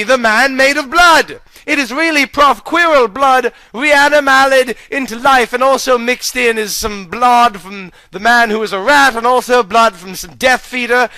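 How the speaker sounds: mild mock scream. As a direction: cry out at the arch enemy. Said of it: "he screamed and said".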